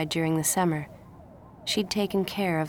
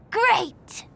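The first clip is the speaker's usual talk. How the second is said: put-on happy child; 5 dB louder than usual. Boy gets milkshakes.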